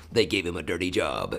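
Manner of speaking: gritty trailer narrator imitation; grindhouse trailer voice. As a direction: growl it like an exploitation trailer. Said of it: "He's the same guy that does From Quentin Tarantino".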